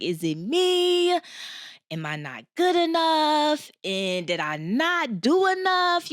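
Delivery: high, slow, pleading inner voice; distressed self-questioning. Retold or imitated. Job seeker doubting herself after rejections, high and pleading. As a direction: ask yourself in high, drawn-out disbelief. Retelling her own despair.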